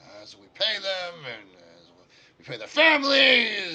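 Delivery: high, loud dwarf voice breaking out between pauses; calculating dwarf. Acted. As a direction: tot up costs aloud, bursting out high. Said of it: "you hear the dwarf".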